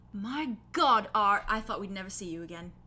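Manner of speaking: loud exclamation, easing off after the first words; lightly breathless, overjoyed reunion; breathless relief. Acted. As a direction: gasp it out to a long-lost friend. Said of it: "The drow gasps and laughs breathlessly".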